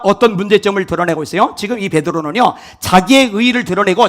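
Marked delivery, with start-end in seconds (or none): none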